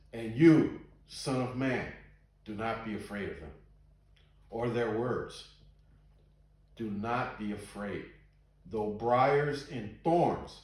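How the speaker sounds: slow, deliberate Bible reading; scripture reading. A narrator's reading. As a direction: read the verse out with weighty pauses. Reads scripture aloud to listeners.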